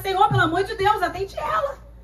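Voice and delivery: rising, begging plea; imploring disciples, rising at the end; pleading disciples. Retold or imitated. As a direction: beg the Lord to answer her. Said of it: "Então os discípulos começam".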